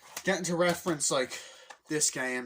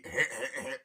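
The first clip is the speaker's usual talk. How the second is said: mock laugh. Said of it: "he just actually does laugh".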